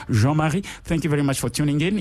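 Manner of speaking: Jean-Marie said the French way, with a rising end; French accent. Shown as a demonstration. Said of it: "I'm gonna try my French accent".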